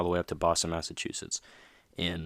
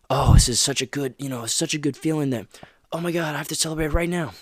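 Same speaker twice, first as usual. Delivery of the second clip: much higher, louder gushing mock celebration; mock overexcitement; 9 semitones higher, 8 dB louder than usual. Dad mocking a kid who over-celebrates, loud, much higher hammed-up glee. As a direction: ham up the thrill of a first win. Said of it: "'cause then you treat it like".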